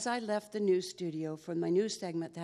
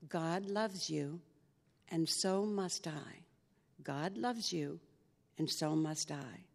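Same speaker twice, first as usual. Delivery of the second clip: slow mantra; 2 semitones lower, slower than usual. Shown as a demonstration. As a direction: repeat it under your breath like a mantra. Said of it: "I would stand there and I would say".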